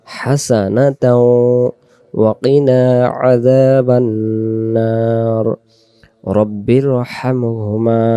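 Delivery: slow, drawn-out devotional chant; Quranic recitation. Acted. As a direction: recite each phrase slowly, letting vowels ring. Recites the duʿas in full.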